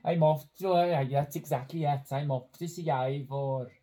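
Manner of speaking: put-on Welsh Valleys accent. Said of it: "in the style of someone from the Welsh Valleys".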